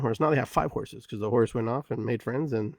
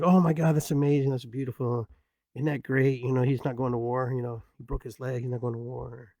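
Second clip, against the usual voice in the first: neighbors thrilled. Retold or imitated. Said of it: "everybody comes over like".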